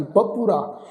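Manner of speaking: ਬਪੁਰਾ in three syllables, ba-pu-ra; sounded short u. Shown as a demonstration. Teacher repeats the word, ਬਪੁਰਾ with audible u. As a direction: keep the u after p in ਬਪੁਰਾ. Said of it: "ਪੱਪੇ ਦੇ ਪੈਰ 'ਚ ਔਂਕੜ ਆ ਜੀ".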